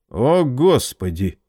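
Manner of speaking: slow, frightened exhale of words; a slow, alarmed sigh of fear; frightened gasp. Acted. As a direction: breathe it out in alarm. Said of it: "испуганно выдохнул".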